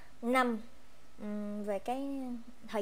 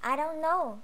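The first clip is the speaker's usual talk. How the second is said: higher, louder I don't know again; repeated student reply; 5 semitones higher, 6 dB louder than usual. Shown as a demonstration. Teacher plays a student who doesn't know the answer, higher and louder. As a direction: shrug it off once more as the student. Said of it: "Ví dụ như mình không biết".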